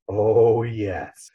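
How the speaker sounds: drawn-out, falling, savoring 'oh, yes'; perked-up interest. Retold or imitated. Spider perks up at the political talk show, perked-up interest. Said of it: "Spider perks up and goes".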